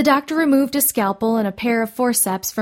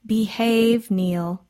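mild, measured scolding; chiding; much slower than usual. A narrator's reading. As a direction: chide like a patient elder. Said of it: "Miss Alice chided".

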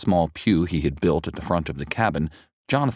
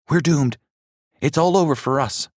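put-on despairing boy; 9 semitones higher, 3 dB louder than usual. A narrator's reading. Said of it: "one of them said".

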